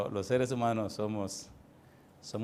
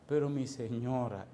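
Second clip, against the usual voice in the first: mildly tearful, drawn-out plea; slow, subdued imitation of weeping; mock tearful. (imitando un llanto leve, lento)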